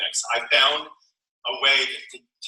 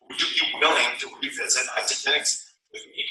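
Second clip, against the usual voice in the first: inviting question; 3 dB quieter than usual. Shown as a demonstration. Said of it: "That's the question".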